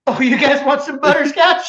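put-on high, loud cranky old coot offering candy; crackly old-timer, laughing through it; old prospector. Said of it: "Mayor, can you say it for us one time?".

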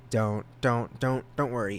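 tripping over repeated words; stammering on don't; stuttering. Real, not acted. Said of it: "I'm stuttering now".

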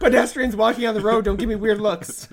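loud, high laughing talk; laughing loud and high about the squeaky car. Real, not acted. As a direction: talk through a big laugh.

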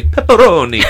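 hint of Italian accent on the topping; lightly hammed Italian pronunciation; mock Italian accent. Telling a buddy how not to order, mock Italian accent. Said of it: "start going into accents".

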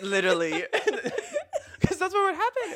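high, helpless laughter through the words; laughing hard. Real, not acted. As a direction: crack up while talking. Laughing at the podcast joke.

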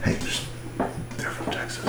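hushed warning. Retold or imitated. London kid warns his friend off the Texans, hushed. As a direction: imitate a kid's hushed aside.

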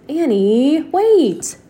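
loud, high call after his sister. Acted. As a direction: shout for her to wait. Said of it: "Jack called".

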